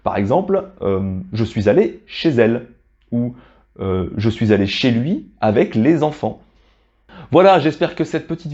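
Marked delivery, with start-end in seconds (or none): 1.3-2.7 chez elle linked as "ché-zelle"; liaison. Shown as a demonstration. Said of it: "on prononce la dernière consonne pour faire la liaison". 4.2-6.4 les enfants linked as "lé-zenfants"; liaison. Shown as a demonstration. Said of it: "on prononce la dernière consonne pour faire la liaison".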